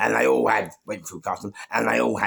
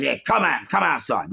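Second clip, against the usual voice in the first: louder, raised challenge to step outside; retold fight challenge; 4 semitones higher, 4 dB louder than usual. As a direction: imitate a man calling someone out.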